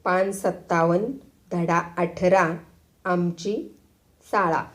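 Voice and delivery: slow, broken schoolboy recital; lightly voiced child reading a lesson; pupil reading aloud. A narrator's reading. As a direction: read it out word by word with pauses. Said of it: "पोरगं पुन्हा वाचू लागलं".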